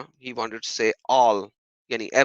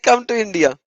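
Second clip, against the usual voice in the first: higher, louder hammed-up menace; mock threatening troll; 8 semitones higher, 7 dB louder than usual. Vlogger ridicules troll's threat with hammed-up menace. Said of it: "He was threatening".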